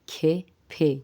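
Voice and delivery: کھے، پھے as k and p with a puff of h; aspirated consonants. Shown as a demonstration. Teacher isolates the sounds for learners, aspirated pronunciation. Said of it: "کاف کے ساتھ ہا کی آواز آئے گی".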